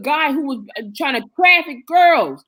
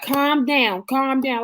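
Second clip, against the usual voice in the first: soothing calm down; 3 dB quieter, much slower than usual. Retold or imitated. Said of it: "every time I'm like".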